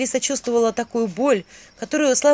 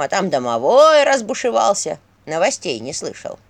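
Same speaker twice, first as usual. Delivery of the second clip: put-on fussing old skull voice. Talking skull figure voiced.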